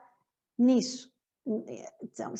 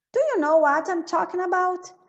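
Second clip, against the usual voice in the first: Morpheus line; 6 semitones higher, 5 dB louder than usual. Shown as a demonstration.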